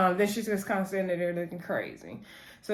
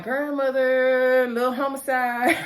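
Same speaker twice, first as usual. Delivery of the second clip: higher, drawn-out call across the house; sing-song call coming home; calling out to grandmother; 5 semitones higher, 3 dB louder, slower than usual. Retold or imitated. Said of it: "he's like".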